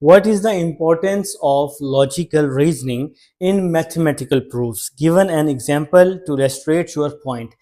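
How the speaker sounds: reading the question word by word, slowly; slow dictation read. Shown as a demonstration. Teacher reads question six to students, slow and spaced. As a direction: spell the question out slowly for the class.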